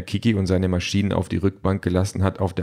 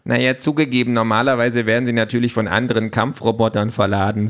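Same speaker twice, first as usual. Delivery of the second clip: higher voice, conceding a point; lightly voiced opinionated gadget; 3 semitones higher than usual. Talking tablet admits robots usually do the loading, lightly voiced know-it-all. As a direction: admit it in passing, lightly in character. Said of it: "sagt Pink".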